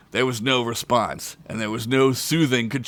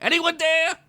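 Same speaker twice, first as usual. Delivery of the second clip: gruff orc shout; orc call. Acted. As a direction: call out into the silence. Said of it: "Blimp shouted".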